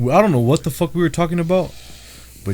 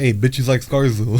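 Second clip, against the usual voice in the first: retold joke shout; 5 semitones lower, 4 dB quieter, slower than usual. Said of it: "I said".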